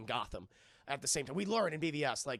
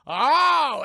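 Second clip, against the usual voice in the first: high, loud stunned oh; high loud surprised oh; mock gasp of surprise; 10 semitones higher, 17 dB louder than usual. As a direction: gasp it like it's a big reveal. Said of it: "She goes".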